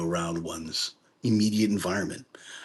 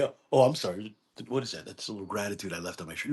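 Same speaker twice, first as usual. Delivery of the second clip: mock aside; 7 dB quieter, faster than usual. Continuing the mock skit.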